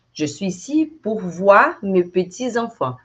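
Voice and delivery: je suis ici pour voir mes petits enfants, slow with liaison; slow full sentence. Shown as a demonstration. Teacher modeling the full sentence slowly. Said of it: "detalhes de pronúncia".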